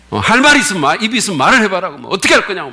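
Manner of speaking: hammed-up angry challenge; angry pastor. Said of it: "소리를 높여서". (화난 목사를 흉내 내며 빠르게 다그치듯)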